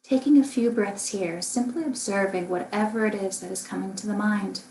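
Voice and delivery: calm, unhurried meditation guidance with long pauses; guided meditation. Acted. Meditation teacher guiding listeners through a body scan, calm and spacious. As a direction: lead gently through the body, leaving room to breathe.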